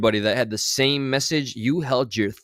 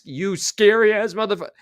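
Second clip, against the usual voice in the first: higher, whiny put-on voice; mocking imitation; 8 semitones higher, 3 dB louder than usual. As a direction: parody his threat as weak and petty. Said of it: "the tone doesn't match the words".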